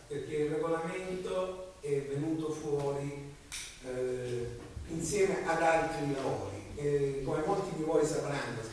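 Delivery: raspy voice with a head cold; hoarse from a cold. Real, not acted. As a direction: talk through a cold, hoarse. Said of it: "Scusate la voce, ma ho un po' di raffreddore".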